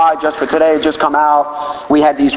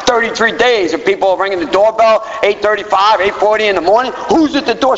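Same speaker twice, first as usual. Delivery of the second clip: high, suspicious complaint; exasperated; 6 semitones higher than usual. Retold or imitated. Husband to wife about the doorbell, high exasperated. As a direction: fret about the early doorbell.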